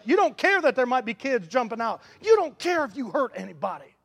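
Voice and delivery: preacher rising to a shout about reckless rage. Real, not acted. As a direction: whip it up to a shout. Building shout in sermon.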